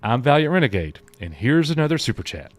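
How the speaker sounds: Family Guy voice. Retold or imitated. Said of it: "That's the guy off Family Guy".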